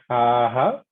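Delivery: drawn-out "aha" that dips, then rises; deep tone. Shown as a demonstration. Teacher likening the third tone to aha, deep tone. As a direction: dip "aha" slowly and lift the end. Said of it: "This is a deep tone".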